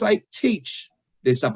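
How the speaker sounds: "teach" stressed above the other words. Shown as a demonstration. Coach replaying the earlier point for listeners, stress on teach. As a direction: lean firmly on "teach". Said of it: "did emphasis on the word teach".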